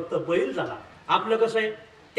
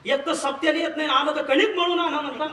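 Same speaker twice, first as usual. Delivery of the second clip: higher, aggrieved complaining voice; whining complaint; 5 semitones higher than usual. Retold or imitated. Hanuman complains to God about being made an ox, whiny. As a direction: play the sulking devotee, pitched up.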